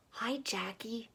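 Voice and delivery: put-on breathy little-girl whisper, slow. Little girl whispering a greeting to Jackie. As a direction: hush it so nobody hears. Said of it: "Katie whispered".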